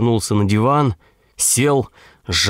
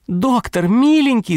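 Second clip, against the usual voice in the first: крик женщины в трубку; 12 semitones higher than usual. A narrator's reading. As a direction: shriek it up high, pleading with the doctor. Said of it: "закричали в трубке". (женщина кричит доктору в трубку, высоко и громко)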